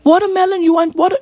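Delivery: puzzled, dainty British caricature; a British pop star. Acted. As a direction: play a clueless British pop star. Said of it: "a pop star would be like".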